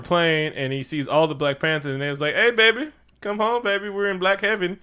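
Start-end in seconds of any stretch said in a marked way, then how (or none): 2.3-4.8 higher-pitched beckoning call; playful high call to a loved one; beckoning ancestors. Acted. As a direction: coax him home from on high. Ancestors calling him home in retelling.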